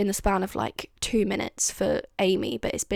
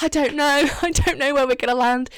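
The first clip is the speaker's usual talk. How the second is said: unbothered; 4 semitones higher, 5 dB louder than usual. Retold or imitated. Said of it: "so, like, unbothered".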